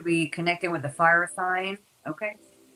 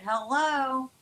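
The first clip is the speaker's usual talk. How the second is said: hello raised high in the same urgent voice; screaming priorities; 6 semitones higher than usual. Pretend. Reader voicing priorities calling to Capricorn, high pitched. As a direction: call out to get attention. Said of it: "It's like".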